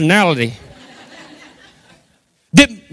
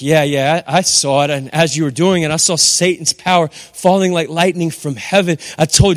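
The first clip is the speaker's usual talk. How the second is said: Jesus calmly replying; 5 semitones lower than usual. Retold or imitated. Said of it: "Jesus is like".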